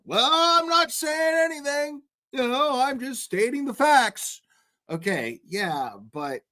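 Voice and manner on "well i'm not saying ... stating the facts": much higher, whiny mock defensive voice; mock Vinny. Streamer mocks the host dodging blame, high and whiny. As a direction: play him as a weaselly defensive host. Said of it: "Vinny talking like that".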